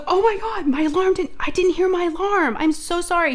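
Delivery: high-pitched, hammed-up panicked son; imitated panic on the verge of tears. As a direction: mimic a frantic, tearful apology. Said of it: "on the verge of tears and he was panicked".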